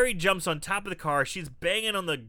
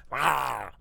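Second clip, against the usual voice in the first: zombie roar; 3 semitones lower than usual. Retold or imitated. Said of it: "makes a scary noise".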